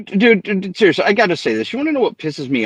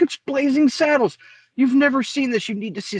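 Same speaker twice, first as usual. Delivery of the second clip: excited pitch; 12 semitones higher than usual. Retold or imitated. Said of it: "I'm like".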